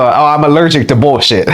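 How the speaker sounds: mocking quote through a laugh. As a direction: say it while laughing. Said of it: "And she go".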